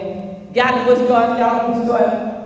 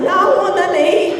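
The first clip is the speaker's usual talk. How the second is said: higher, fast polite no; quick high refusal; 8 semitones higher, much faster than usual. Retold or imitated. Girl refusing food from her boyfriend, quick and high. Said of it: "I said".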